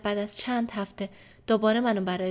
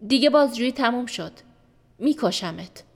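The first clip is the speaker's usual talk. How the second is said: louder, angry shout; raised but not full-force shout; 2 semitones higher, 5 dB louder than usual. Retold or imitated. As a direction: yell the threat. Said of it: "فریاد زد".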